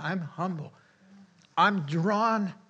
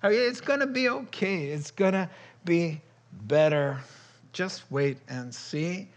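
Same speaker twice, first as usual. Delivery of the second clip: higher, eager and reassuring; delighted God; 4 semitones higher than usual. Retold or imitated. God reassuring the depleted believer, high and delighted. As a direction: sound pleased to get to work. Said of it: "He says".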